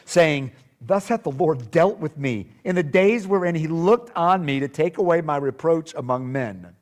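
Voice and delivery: measured, emphatic Bible reading; scripture reading. Acted. Preacher reads Zacharias's story to the congregation, scripture reading. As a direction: read scripture aloud with deliberate phrasing.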